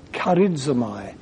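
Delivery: Charizomai said slowly as KHAR-id-zo-my; Greek word charizomai. Shown as a demonstration. Preacher teaching a Greek word: slow, clear. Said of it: "Charis is grace".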